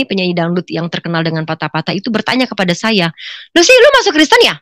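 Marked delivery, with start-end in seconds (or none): 3.5-4.6 high, loud acted astonishment; startled question. Celebrity friend questioning her conversion, startled exclamation. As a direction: blurt it out in disbelief.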